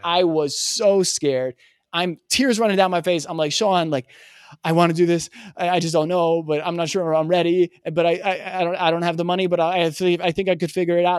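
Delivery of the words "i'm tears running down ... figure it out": higher, louder, rushed and tearful; a hint of retold sobbing as you ramble; tearful rambling. Rambling tearfully to his mentor Sean about being ready. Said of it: "And I'm just rambling".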